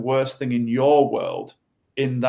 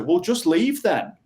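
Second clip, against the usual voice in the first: irritated snapping that climbs to a high, fast last line; a half-hammed persecutor getting fed up; mock persecutor; 4 semitones higher than usual. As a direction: nag the victim and end on a high, rushed complaint. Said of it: "the persecutor".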